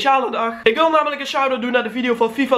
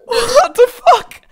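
slow, high disbelief; very high pitch; 8 dB louder, much slower than usual. Real, not acted. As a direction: drag it out in shock. Shocked at old clip.

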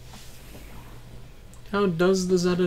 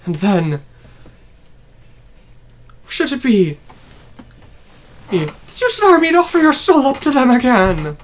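menacing villain voice; 4 semitones higher, 10 dB louder than usual. Acted. Voicing villain dialogue.

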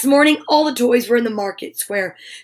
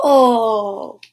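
long mock cry of "oh"; stretched, falling storybook howl; drawn-out exclamation; 4 dB louder than usual. Struggle after catching Gobbo, drawn-out cry.

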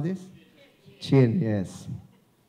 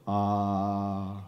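low resonant ah; 6 semitones lower than usual. Shown as a demonstration. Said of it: "Timbre is the way your voice feels".

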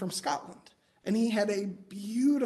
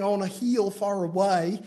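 slow put-on accent mimicking a song leader; lightly mimicked song-leader accent; Chuck's accent. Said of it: "guess who he's singing like".

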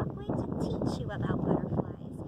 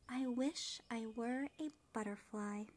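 soft, wistful wish said under the breath; softly, almost to himself; 10 dB quieter than usual. Acted. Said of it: "he said softly".

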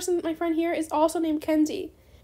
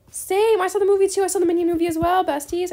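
excited agreement; 3 semitones higher, 6 dB louder than usual. Real, not acted. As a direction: jump in excitedly. Excited reply about Minion movie.

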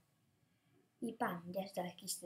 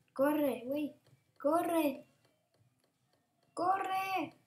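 frantic yelling; 4 semitones higher, much slower than usual. Real, not acted. Fleeing monster in game.

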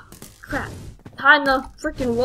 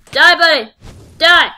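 gleeful yell; 4 semitones higher, 4 dB louder than usual. Real, not acted. Urging enemy to die.

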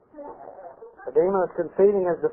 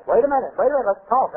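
higher, hurried protest, lightly acted; pleading demon; 7 semitones higher, faster than usual. Cornered demon bargains with the pastor, mildly pleading. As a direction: stall for time in a raised, mildly pleading voice.

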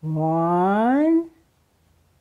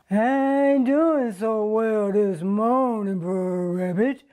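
dejected fox; 4 dB quieter than usual. Acted. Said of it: "Brer Fox says".

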